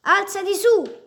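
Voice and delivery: high, loud, slow mocking yell; laughing shout. A narrator's reading. Mesei mocking the fallen Isa, laughing shout. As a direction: crow it at him, relishing his fall. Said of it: "gridò ridendo Mesei".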